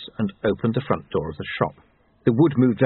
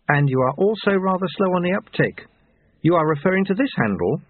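higher-pitched, cool condescension; stern, disdainful woman; 7 semitones higher than usual. Acted. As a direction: talk down to him, pitched up. Voices Susan scolding Lobsang.

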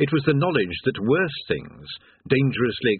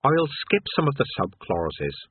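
kindly; 2 semitones higher, slower than usual. Acted. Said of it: "he said kindly".

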